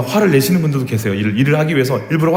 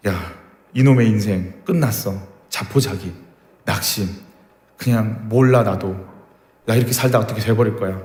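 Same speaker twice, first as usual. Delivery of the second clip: despairing slave; 2 semitones lower than usual. Retold or imitated. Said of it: "그런 스타일도 있을 것이고".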